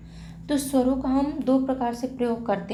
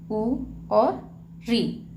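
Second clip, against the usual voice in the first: slow listing; much slower than usual. Shown as a demonstration. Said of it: "जैसे यहाँ पे हो गया".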